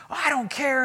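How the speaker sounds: high-pitched imitation of an angry driver; mock a yelling man without real volume. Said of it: "he's just yelling and screaming at me".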